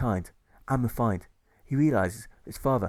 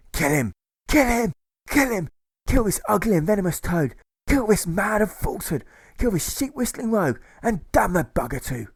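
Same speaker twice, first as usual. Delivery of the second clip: high, loud savage snarls; snarling like a coyote; 10 semitones higher, 6 dB louder than usual. Acted. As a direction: spit each demand like a wild animal. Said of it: "snarls like a coyote".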